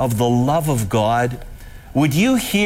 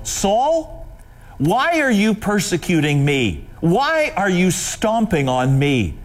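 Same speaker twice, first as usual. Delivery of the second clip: a high call, then a grieved question; voice of Jesus; 4 semitones higher than usual. Acted. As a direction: lift the name, lean on why. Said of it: "hear what Jesus says to Saul".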